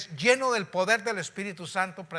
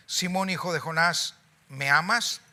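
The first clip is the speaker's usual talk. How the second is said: louder second asking; 6 dB louder than usual. Acted. Jesus asks Peter a second time.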